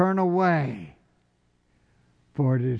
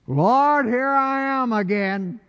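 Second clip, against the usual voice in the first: sheepish mock return; 9 semitones higher than usual. Mock sinner returning to God.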